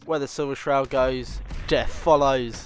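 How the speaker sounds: dramatic hero line. Pretend. Gamer quoting hero catchphrase.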